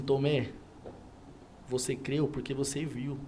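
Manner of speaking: slow, soft and low, a quiet revelation; solemn, gentle Jesus. Retold or imitated. Jesus gently telling doubting Thomas, slow and soft. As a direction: speak it tenderly, as Jesus to Thomas. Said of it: "E aí Jesus fala assim".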